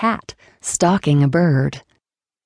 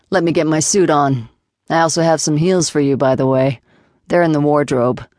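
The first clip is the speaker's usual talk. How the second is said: lightly lowered, firm man's voice; Jason's voice. Acted. Jason laying down the rules to Flora, lightly lowered voice.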